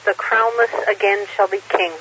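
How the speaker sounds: slow, measured verse reading; poem recitation. Acted. Reads a Tolkien poem aloud.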